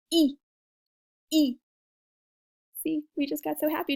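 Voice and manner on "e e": "E" said through a smile; smiling I. Shown as a demonstration. Teacher modelling the I while smiling. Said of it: "smile while you do it".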